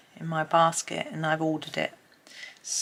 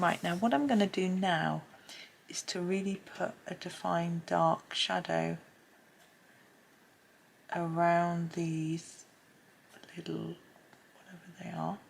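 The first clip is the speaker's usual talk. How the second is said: soft whispered aside; whispering; 3 dB quieter than usual. Real, not acted. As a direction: whisper it while drawing. Whispered drawing instructions.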